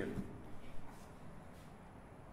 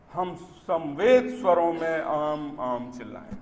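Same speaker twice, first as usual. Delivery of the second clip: falling refrain; 2 semitones higher, 7 dB louder than usual. Acted. Poet closing a stanza for the audience, falling refrain. First take of repeated refrain.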